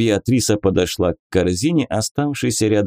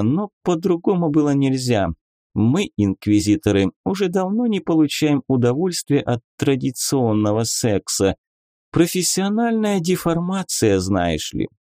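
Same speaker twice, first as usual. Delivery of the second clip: higher, teasing lady; lady inquisitor voice; 5 semitones higher than usual. Acted. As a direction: play a coy, mocking lady. Beatrisa, playful inquisitor lady. (игривая дама-инквизитор)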